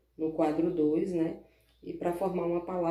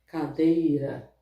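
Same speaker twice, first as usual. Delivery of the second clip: slow emphasis; 7 dB louder, much slower than usual. Shown as a demonstration.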